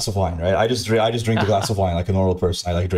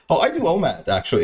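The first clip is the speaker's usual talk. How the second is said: pitched-up Californian "Oh, I do omad"; light Californian impression, pitched up; mock Californian; 5 semitones higher than usual. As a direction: imitate a fruity Californian bro. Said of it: "the way he said".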